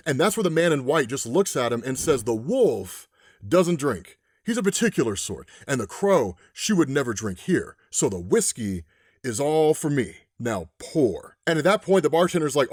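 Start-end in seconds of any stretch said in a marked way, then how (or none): 2.2-11.4 deliberate and unbothered, a touch of menace; western voice. Retold or imitated. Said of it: "I'm gonna put on a Western voice here".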